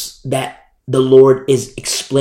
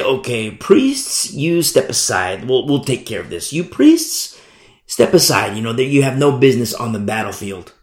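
mock general. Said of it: "the generals would say".

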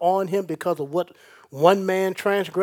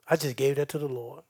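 serene reply; 4 semitones lower, 5 dB quieter than usual. Acted. Calm believer answering friend.

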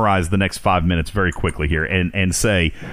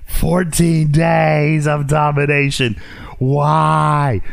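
incredulous; 6 semitones higher, much slower than usual. Real, not acted. Incredulous rant at the studio.

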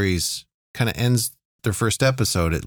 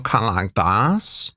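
a hint of a posh, vaguely German accent; quick sketch of a posh Euro accent; half-hearted posh German-ish accent; lightly posh accent; slower than usual. Shown as a demonstration. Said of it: "rich, posh".

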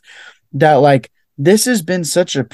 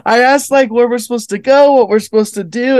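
exasperated retelling; 8 semitones higher than usual. Retold or imitated. Comic retelling, raised voice.

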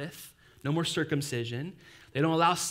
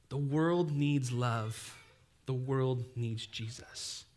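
tender sermon line; 2 semitones lower, 5 dB quieter, much slower than usual. Acted. Sermon climax, slow soft repeat.

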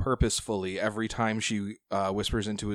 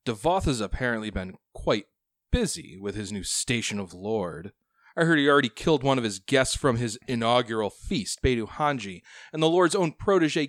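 smooth, sly scheming noble; oil every word with menace; oily voice; 3 semitones higher, 5 dB louder than usual. Acted. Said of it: "the most oily voice".

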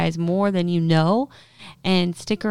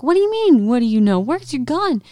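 frantic questions; 8 semitones higher, 4 dB louder than usual. Retold or imitated. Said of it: "And I'm like".

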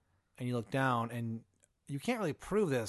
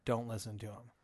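ominous passenger. Acted. Mysterious passenger gives a warning.

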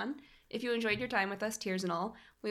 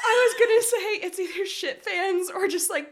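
laughing; 10 semitones higher, 7 dB louder than usual. Real, not acted. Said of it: "laugh cry".

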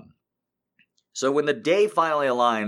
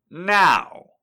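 much higher, louder demand; commanding shout; 10 semitones higher, 8 dB louder than usual. Acted. Dominant lover demanding now, shouted. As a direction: bark the order.

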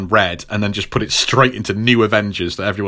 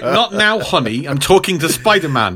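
higher-pitched brush-off; Jessica; 5 semitones higher than usual. Retold or imitated. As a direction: wave off a husband, imitating her. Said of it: "and she's like".

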